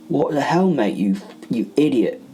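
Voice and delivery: put-on Cockney accent, annoyed; soft Cockney accent. A narrator's reading. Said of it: "he said in a soft Cockney accent".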